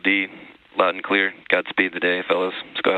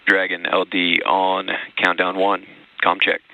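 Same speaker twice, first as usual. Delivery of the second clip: slow, deliberate radio call; astronaut radio; 3 semitones lower, 7 dB louder, slower than usual. Real, not acted. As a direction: call it over the comm loop. Launch director over radio.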